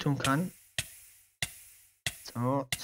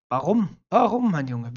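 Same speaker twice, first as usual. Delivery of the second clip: exasperated outcry; 3 semitones higher, 6 dB louder, slower than usual. Acted. Complaining about being killed.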